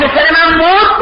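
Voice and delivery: high-pitched stunned question; acted shock. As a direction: retell a mother's disbelief, voice lifted. Mother hears son died.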